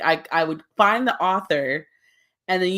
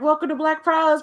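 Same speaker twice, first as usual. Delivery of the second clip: announcer intro; 9 semitones higher than usual. Retold or imitated. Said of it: "It's like".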